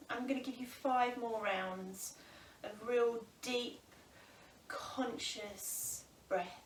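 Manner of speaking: slow, drawn-out breathing instruction; guided breathing. Real, not acted. Yoga teacher guiding students through full breaths, slow guided breathing. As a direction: pace it slowly, leaving room for each breath.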